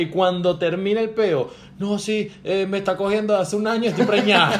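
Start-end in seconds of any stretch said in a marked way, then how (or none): 1.8-4.6 higher-pitched girlfriend voice, hammed up; lightly voiced confession building to a laugh; mock confession. Girlfriend confesses cheating to him, mock high-pitched admission.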